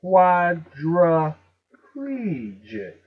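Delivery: "Quadriplegic" very slowly as QUAD-ruh-PLEE-jik; loud, stretched "Quadriplegic" with pl run together; missing a syllable. Shown as a demonstration. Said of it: "it's missing a syllable".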